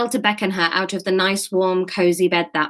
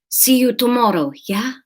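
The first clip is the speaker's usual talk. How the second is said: put-on higher Spanish-accented farewell; 5 semitones higher than usual. Student says goodbye to staff friend, Spanish accent. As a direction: sign off lightly in a Spanish accent. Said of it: "Let's do Spanish".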